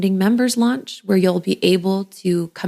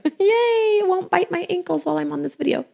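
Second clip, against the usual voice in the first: laughing; 12 semitones higher than usual. Real, not acted. Caught the mosquito, laughs.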